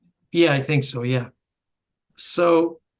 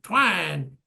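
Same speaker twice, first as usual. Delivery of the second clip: imitated yell; 2 semitones higher than usual. Hearing the old shout in the movie, mock yell. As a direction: call it out, drawn, without volume. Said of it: "I can hear all our voices".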